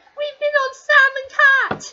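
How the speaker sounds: excited exclaiming, high, loud and slow. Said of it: "Sophia Grace is like".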